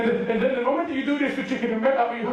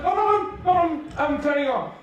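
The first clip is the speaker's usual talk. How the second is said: high, hurried little-brother protest; retold panicky reassurance, pitched up; flustered placating; 5 semitones higher than usual. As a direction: placate an annoyed big brother. Hurriedly placates his annoyed brother.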